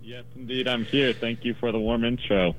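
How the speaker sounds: distant, quiet call-in audio; phone line. Real, not acted. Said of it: "you sound as if you're in the next room".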